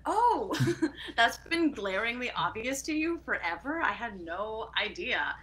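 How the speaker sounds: high, startled "oh" with a laugh that settles back down; surprised realization. Retold or imitated. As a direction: replay your own shock, laughing at yourself.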